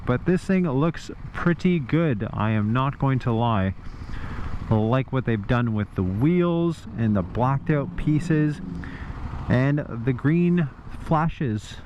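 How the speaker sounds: muffled, talking inside a closed helmet; muffled behind visor. Real, not acted. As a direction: speak through a shut visor. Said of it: "lift my visor up so I don't suffocate".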